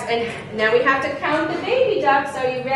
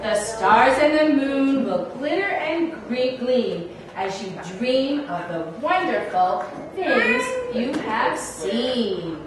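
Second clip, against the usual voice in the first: put-on reading to a toddler; 3 semitones lower, slower than usual. Bedtime book read softly.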